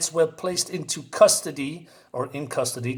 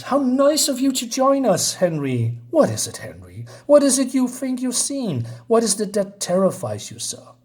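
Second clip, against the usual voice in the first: mock villain taunt; 6 semitones higher than usual. Villain Madeline taunting Henry.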